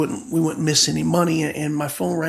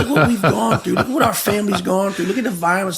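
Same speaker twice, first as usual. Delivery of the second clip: laughing rant; 3 semitones higher, 4 dB louder than usual. Real, not acted. Laughing while voicing rant.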